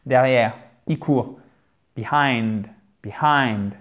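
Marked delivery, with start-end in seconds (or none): 2.0-3.7 "Behind" with an audible H; H bien prononcé. Shown as a demonstration. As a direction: demonstrate "behind", sounding the H. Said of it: "faites bien le H ici". (« behind » en faisant bien entendre le H)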